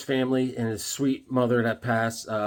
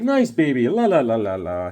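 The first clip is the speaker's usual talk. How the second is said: a lightly voiced villain crooning at a baby; villain baby talk; 4 semitones lower than usual. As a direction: coo at the baby like a twisted villain. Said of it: "He's like".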